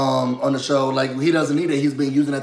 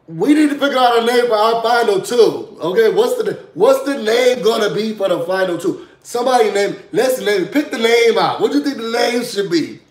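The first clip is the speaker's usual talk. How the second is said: loud, raised mock announcement; yelling over loudspeaker; 5 semitones higher, 3 dB louder than usual. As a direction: project it as if through a megaphone. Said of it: "Yelling it over the loudspeaker".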